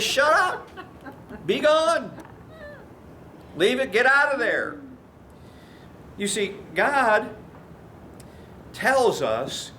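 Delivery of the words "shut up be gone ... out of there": stern command. Retold or imitated. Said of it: "And Jesus says".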